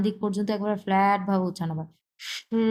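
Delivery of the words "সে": সে held flat and level all through; first tone. Shown as a demonstration. Teacher models the first tone again, held flat. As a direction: say সে evenly flat. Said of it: "হ্যাঁ, এইভাবে".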